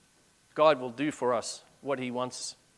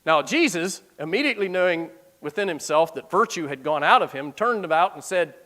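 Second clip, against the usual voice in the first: reading the verse aloud, measured; scripture reading. Acted. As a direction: read it like scripture from the pulpit.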